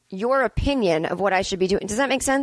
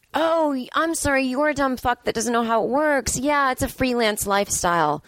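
higher, sarcastic put-down; condescending handler; 4 semitones higher than usual. Pretend. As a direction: talk down to a clueless asker. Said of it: "the condescending one".

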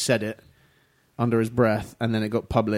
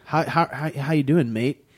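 American saying mate; slower than usual. Retold or imitated. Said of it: "they do it in an American accent".

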